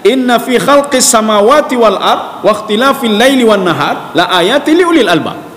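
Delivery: slow, measured recitation of the verse; unhurried Quran chant, slow. Acted. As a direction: draw each Arabic word out slowly and reverently.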